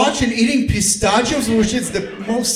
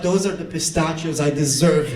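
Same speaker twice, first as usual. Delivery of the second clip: lower, soft smug boast; mock smug Philip; 5 semitones lower, 4 dB quieter than usual. Comedian voices Philip bragging about deserving the pistachios, low and smug. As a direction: voice Philip as smugly entitled. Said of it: "Philip was like".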